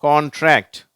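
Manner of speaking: teacher's repeatable model CONTRACT; NTR blend demo. Shown as a demonstration. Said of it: "இதை நீங்க உச்சரிச்சு பழகுங்க".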